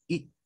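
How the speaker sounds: "I" cut very short and quick; a quick, lax "I", not held; short English I. Shown as a demonstration. Teacher repeats the English vowel, short and quick. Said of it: "Es rápido".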